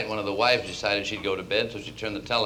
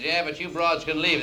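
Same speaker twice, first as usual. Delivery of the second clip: gruff dismissal; 7 semitones higher than usual. Acted. Lodge owner dismisses the wives.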